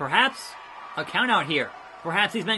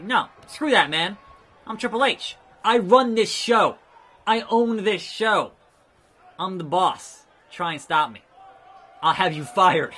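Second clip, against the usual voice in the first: voicing Triple H boasting; 2 semitones higher, 5 dB louder than usual. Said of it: "He's like".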